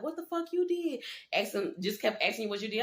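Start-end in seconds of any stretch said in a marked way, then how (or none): 0.0-1.0 mock inmate question. Inmates grilling newcomer.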